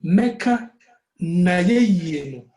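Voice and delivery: slow, each syllable set apart and stressed. Shown as a demonstration. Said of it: "say Mecca na ye ye".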